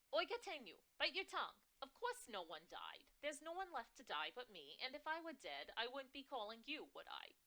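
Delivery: high, loud, scandalized New York mom; outraged on her daughter's behalf; indignant New York mother. Acted. Mother complaining about the boss, loud and shrill. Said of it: "My mother's shrill, New York-tinged voice".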